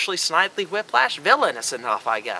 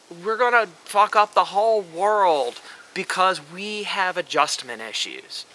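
whiny emo. Retold or imitated. Mocking the Uchiha clan, lightly whiny. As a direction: sneer it like a sulky emo teen. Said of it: "whiny emo bitches".

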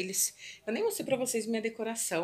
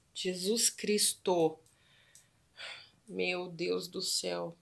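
slow, drawn-out exasperation; real slow dismay at the shattered glass; slow dismayed sigh; much slower than usual. Real, not acted. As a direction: stretch out the dismay. Dismay at broken glass mess.

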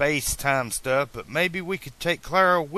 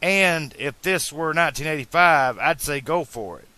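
higher-pitched, tactful reasoning; careful; 5 semitones higher, 4 dB louder than usual. A narrator's reading. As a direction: pick your words gently but earnestly. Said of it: "choosing his words carefully".

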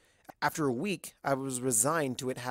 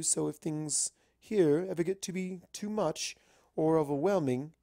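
a hint of a genteel lady; lightly voiced polite unicorn; lightly voiced refined mare; 4 semitones higher than usual. Rarity voiced in story.

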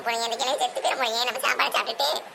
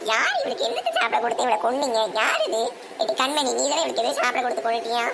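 accusing. Acted. Acted accusation of poisoning.

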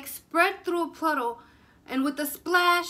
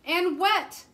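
fearful wail; 3 semitones higher, 5 dB louder than usual. Acted. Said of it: "they cried together".

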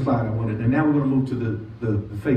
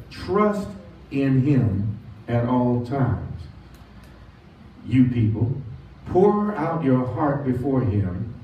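slow, weighty, lean into "in him"; preacher pressing "in him"; stress on in him; slower than usual. Shown as a demonstration. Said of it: "the emphasis is in him".

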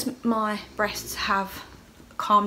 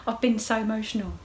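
laughing; 4 semitones higher than usual. Real, not acted. Laughing after retold outburst.

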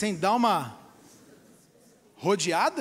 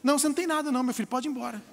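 calm the family while hiding the truth; soothing lying doctor; much faster than usual. Retold or imitated. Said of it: "o médico vê a mãe chorando". (médico sussurrando falsa calma)

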